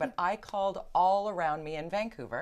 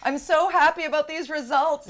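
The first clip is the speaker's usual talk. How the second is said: laughing; 9 semitones higher, 8 dB louder than usual. Real, not acted. Host delighted by poll results.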